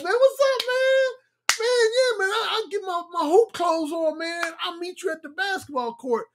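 very high-pitched chatter with a buddy; high, excited homeboy voice; voice going up. Retold or imitated. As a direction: push your voice way up high, talking to your boy. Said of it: "talking about the voice go up".

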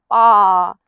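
a loud baa; chasing baa. Acted. The sheep chases the farmer through the field with a loud baa. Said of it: "mooing and baaing and clucking".

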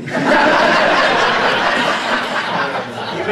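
loud laughter rising in pitch. Real, not acted. Picturing the cop holding up the tiny shirt, loud laughter. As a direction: burst out laughing at the joke.

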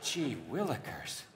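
slow, laughing mock Dick Van Dyke. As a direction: ham up a cheery old-timey phrase. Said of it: "Another great actor doing it is Dick Van Dyke".

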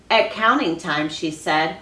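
reading a picture book aloud to the class; expressive read-aloud for children; story reading. Acted. Teacher reads story aloud.

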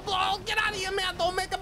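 very high, panicky warning; cornered robber squeaking out orders; acting scared. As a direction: order them back in a high, frightened voice. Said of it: "You scare me".

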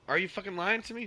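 angry yell at a declined card; exasperated outburst. Real, not acted. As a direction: snap at the screen in disbelief.

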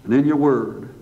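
earnest, even-pitched pastoral prayer; public prayer. Real, not acted. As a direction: address God in steady phrases with pauses between petitions. Let's bow for a word of prayer.

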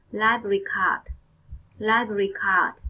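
library card with the c of card said as a crisp k. Shown as a demonstration. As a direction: make the c in card a clear k sound. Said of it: "chữ C ở trong từ card được phát âm là k".

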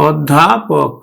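অধ্যাপক said slowly in parts; slow, separated অধ্যাপক; drawn-out pronunciation. Shown as a demonstration. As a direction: stretch অধ্যাপক out for learners. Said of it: "অধ্যাপকের উচ্চারণ কেমন হবে".

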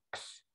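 one whispered "кс"; just one soft "кс", no repeat; single ks. Shown as a demonstration. Teacher showing the ks sound once, whispered. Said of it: "Але один раз".

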